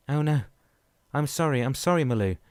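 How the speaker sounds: loud, high, frantic sorry; screamed apology. Acted. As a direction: yell it as you rush to her. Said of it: "Dan screamed".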